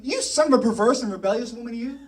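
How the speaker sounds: mildly heated read-out insult; angry Saul. Retold or imitated. Saul flaring up at Jonathan, moderately angry. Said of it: "Saul's anger flared up at Jonathan".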